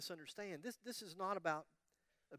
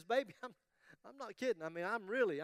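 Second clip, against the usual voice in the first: insistent pleading wife; 3 semitones higher than usual. Acted. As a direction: beg him harder, getting fed up. Wife pleads again, more insistent.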